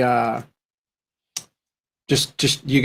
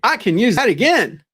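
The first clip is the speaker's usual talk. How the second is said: self-impressed; 2 semitones higher, slower than usual. Retold or imitated. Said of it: "and going".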